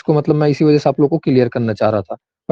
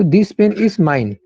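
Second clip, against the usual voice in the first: slow dictation; 3 semitones higher, much slower than usual. Shown as a demonstration. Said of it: "ऐसे बोल रहा है".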